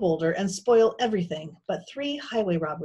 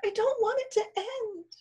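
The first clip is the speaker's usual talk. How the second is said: very high, pleading small voice; plaintive whisper. A narrator's reading. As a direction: confide fear in a small high voice. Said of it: "Pearl whispered back".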